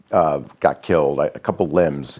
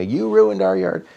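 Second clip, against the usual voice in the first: higher and slow, a lightly hammed-up kid's wail; mock wailing kids; 13 semitones higher than usual. Father imitating his upset kids about the yard, slow mock wail. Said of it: "crying and yelling".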